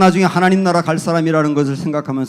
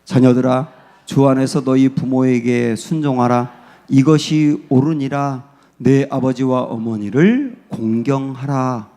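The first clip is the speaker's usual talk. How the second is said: slow, measured reading of the verse; solemn scripture reading; scripture recitation; 3 semitones lower, slower than usual. Shown as a demonstration. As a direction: recite each word slowly with reverence. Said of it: "말씀 볼게요. 시작".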